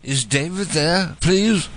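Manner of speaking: slow, polite British caller; mock British accent, drawn out. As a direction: repeat it slowly in a put-on British voice. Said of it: "switch to my British voice".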